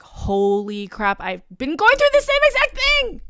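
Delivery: mock amazed yell, leaping high; excited relatable outburst. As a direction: imitate someone thrilled to relate. Voices excited listeners recognising their story.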